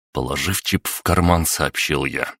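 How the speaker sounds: ordinary delivery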